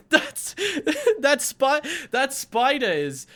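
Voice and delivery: slow, high, bad British-turned-Australian accent; Australian-sounding accent. Shown as a demonstration. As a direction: giggle through a hammed-up Australian accent. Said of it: "That's Australian".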